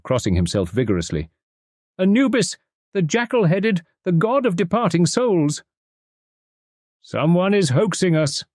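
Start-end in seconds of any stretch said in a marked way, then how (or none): 2.0-5.6 high detective voice, hushed awe at the jackal god; name the god as the shaken little detective; awed detective. A narrator's reading. Poirot's voice in story. 7.0-8.4 indignant cry. A narrator's reading. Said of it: "cried Doctor Toswill, rising indignantly".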